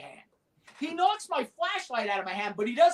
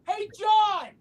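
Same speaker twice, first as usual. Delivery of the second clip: loud, higher shout up to a roof; hey, shout it up to him; calling yell; 7 semitones higher, 5 dB louder than usual. Retold or imitated. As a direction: call out to a man on a rooftop. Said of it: "and I yell".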